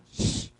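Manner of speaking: a long, sustained "sh" on its own; isolated SH sound. Shown as a demonstration. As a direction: sound out "sh" as one single hissed phoneme. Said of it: "Aqui saiu um novo som". ("sh" isolado e prolongado, um único som)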